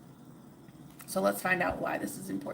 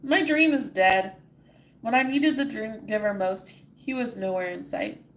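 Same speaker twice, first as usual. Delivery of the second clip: louder, anguished lament; cried out in despair; 2 semitones higher, 6 dB louder than usual. Acted. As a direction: cry out the dead dream. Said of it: "cried Ordinary".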